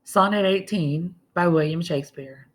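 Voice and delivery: formal title announced before the poem; measured recital voice; poem reading. Acted. Teacher reads the sonnet aloud.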